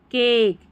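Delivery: केक with a drawn-out long ए; long a demo. Shown as a demonstration. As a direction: stretch the ए in केक slowly. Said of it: "long ए". (केक में लंबी ए ध्वनि, धीरे से)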